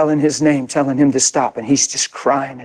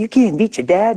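teasing taunt; 6 semitones higher than usual. Retold or imitated. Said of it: "they'd mock him and say".

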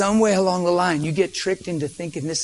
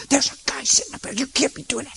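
stern father; 7 semitones higher, 4 dB quieter than usual. Retold or imitated. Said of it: "He's talking really stern to her".

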